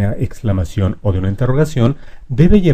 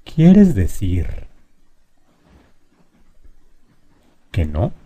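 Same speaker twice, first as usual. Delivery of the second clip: slow example question; much slower than usual. Shown as a demonstration. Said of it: "observa por favor bien la estructura".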